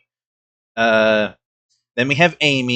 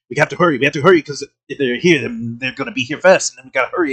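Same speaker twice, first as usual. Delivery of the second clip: mock fast commando talk; much faster than usual. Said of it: "constantly talks fast".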